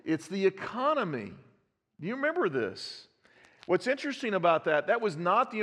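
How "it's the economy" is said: "it's the economy" lifted higher, teasing; playful slogan line with the last word left unsaid; coy withheld punchline. Shown as a demonstration.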